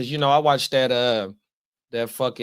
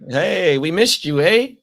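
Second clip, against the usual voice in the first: mock Canadian accent; 3 semitones higher, 6 dB louder, slower than usual. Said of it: "They don't even really talk like that".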